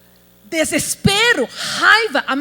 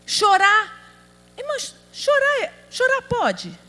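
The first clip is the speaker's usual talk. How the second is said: ordinary talk, nothing marked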